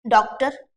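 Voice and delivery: डॉक्टर as 'DAWK-tar'; correct English vowel. Shown as a demonstration. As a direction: give डॉक्टर an open rounded vowel. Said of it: "अब बन गया".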